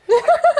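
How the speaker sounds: loud high laugh; shrieking laugh. Real, not acted. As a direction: squeal with laughter.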